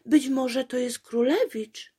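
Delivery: hope out loud it's the prince; hopeful. A narrator's reading. Apolejka hoping the prince has come, eager.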